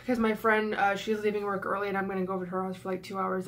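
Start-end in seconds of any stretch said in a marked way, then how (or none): 1.9-3.4 rushed, cracking, near-tears voice. Real, not acted. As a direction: voice breaking, on the verge of tears. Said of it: "my voice is cracking".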